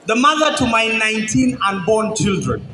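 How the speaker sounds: measured love-poem recitation to a crowd; spoken word poem. Acted. Poet addresses his future wife, spoken word recitation. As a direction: declaim it phrase by phrase, letting pauses land.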